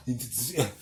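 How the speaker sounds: long, low, stretched imitation of his yeah; imitating drawn-out yeah. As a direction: drag the yeah out, mimicking him. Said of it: "like that".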